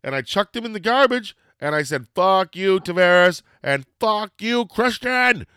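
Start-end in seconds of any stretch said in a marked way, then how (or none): 2.1-5.5 loud, high curse building to a drawn-out name; re-enacted furious yell; retold angry outburst. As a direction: hurl it like a hammed-up curse. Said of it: "And I was so angry".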